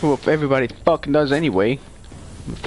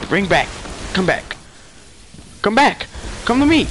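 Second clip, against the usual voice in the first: calling out; 6 semitones higher than usual. Real, not acted. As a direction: shout him back. Calling fleeing enemy.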